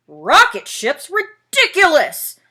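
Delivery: loud scornful bear. Acted. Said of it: "Bear's voice was getting louder".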